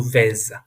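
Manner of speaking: "vez" with the final consonant sounded as Z; voiced Z ending. Shown as a demonstration. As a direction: end "vez" on a buzzing Z. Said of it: "it will become the Z sound".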